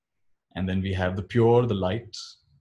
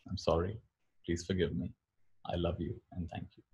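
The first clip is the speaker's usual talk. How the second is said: soft, low, with gentle pauses; softly recited cleansing phrases; 4 semitones lower, 11 dB quieter than usual. Shown as a demonstration. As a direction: recite it quietly, as if to yourself.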